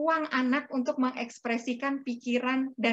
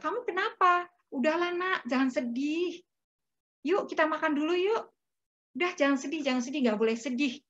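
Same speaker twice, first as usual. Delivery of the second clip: gentle soothing tone; 3 semitones higher than usual. Acted. Mother hushing a child home sad from school, gentle but dismissive. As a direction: coax the child to stop crying, gently. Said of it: "disampaikan dengan nada bicara yang lembut".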